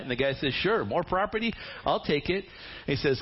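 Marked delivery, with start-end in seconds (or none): 0.5-2.4 eager grab. Acted. Eager cousin accepts.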